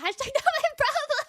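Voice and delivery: repeating the line through a laugh. Real, not acted. Amused at her own retelling, laughing through the quote. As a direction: laugh while quoting it back. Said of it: "No, literally".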